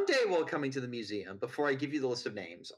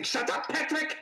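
mustache twirling villain. Acted. Villain snaps at assistant.

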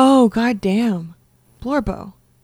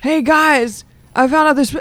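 put-on old prospector; 5 semitones higher than usual. Tarnation, Sam's Hill character voice.

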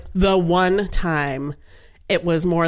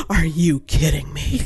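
put-on thrilled kid; 2 semitones lower, slower than usual. Nephew voiced, thrilled.

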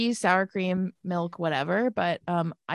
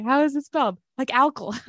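mimicking a friend's words, higher; imitating friend; 5 semitones higher than usual. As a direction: echo her question playfully. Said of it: "I can't say it right".

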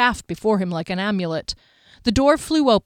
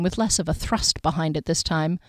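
ordinary delivery

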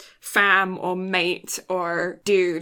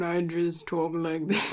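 imitation of a really deep voice; mock deep tone; 5 semitones lower, 7 dB quieter than usual. Co-host mimicking the host's usual tone, mock deep. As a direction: drop it low and soft, mocking a deep talker. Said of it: "in my usual really deep tone".

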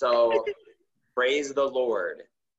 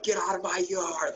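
mock redneck; 9 semitones higher than usual. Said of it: "I wanted to come out".

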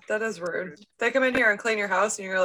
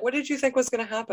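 incredulous scolding; 4 semitones higher, faster than usual. Retold or imitated. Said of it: "And I'm like".

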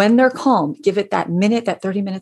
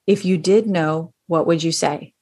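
even, neutral question with slight stress on did; calm, open and non-judgmental; no sarcasm. Shown as a demonstration. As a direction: ask it plainly, like elevator small talk. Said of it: "no sarcasm in my voice".

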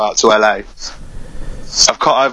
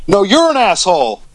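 mild mock shout; 6 semitones higher than usual. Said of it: "he just shouted out".

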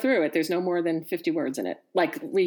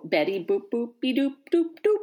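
put-on sing-song baby talk, climbing higher toward the end; grandpa baby talk; 5 semitones higher than usual. Grandfather baby-talking to his little granddaughter, rising sing-song. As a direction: coo it the way a grandfather talks to a toddler. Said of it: "baby talking to me".

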